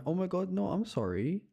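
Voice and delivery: high, loud flustered apology; mock panic. Real, not acted. Streamer apologizing to chat, mock panic.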